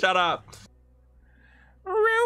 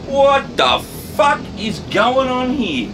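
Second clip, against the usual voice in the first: voice effect; 7 semitones higher, 6 dB louder, slower than usual. Pretend. Voice mod outro.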